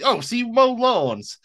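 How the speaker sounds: high, slow drawn-out Southern preacher; Baby Billy voice. Retold or imitated. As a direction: stretch it out sweetly, way up high. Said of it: "when he goes out and tries to introduce everybody".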